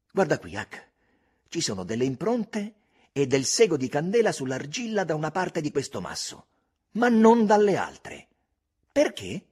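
Tom building to a loud high question; a boy who's found a clue, pressing Huck; excited Tom. A narrator's reading. Tom pointing out tracks to Huck: rising excitement.

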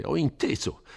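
huffy resignation with a sigh; mildly exasperated priest; peevish, sighing. A narrator's reading. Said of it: "sospirando stizzosamente".

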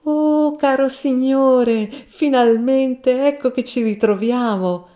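put-on loud, high, drawn-out drunk greeting; drunken shouting. A narrator's reading. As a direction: bellow it like a tipsy braggart.

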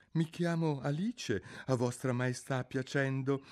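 high, polite little Alice voice; dutifully polite. A narrator's reading. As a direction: answer the queen politely, pitched high. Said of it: "disse Alice con la dovuta compitezza". (con dovuta compitezza)

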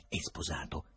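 domanda piano, a voce bassa; voce sommessa. A narrator's reading. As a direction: chiedi con discrezione, sottovoce. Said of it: "chiedeva con voce sommessa".

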